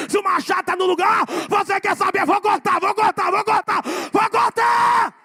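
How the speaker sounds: loud, building to a high shouted climax; preaching at full force. Acted. Pastor rousing the congregation to a shouted climax. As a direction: drive the repetitions home harder each time.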